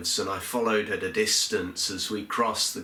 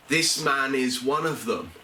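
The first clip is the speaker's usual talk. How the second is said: spiteful, a touch higher, mildly voiced venom; venomous accusation; 5 semitones higher than usual. Woman pointing the finger at Peter, mild venomous accusation. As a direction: spit it out with understated venom. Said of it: "so much venom in her voice".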